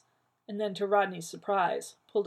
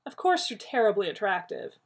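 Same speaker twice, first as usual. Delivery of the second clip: placating; 3 semitones higher, 7 dB louder than usual. A narrator's reading. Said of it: "he said placatingly".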